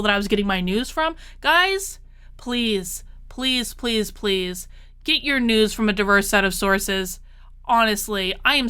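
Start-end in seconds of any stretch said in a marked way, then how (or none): 1.4-7.2 earnest plea. Real, not acted. Pleading with viewers.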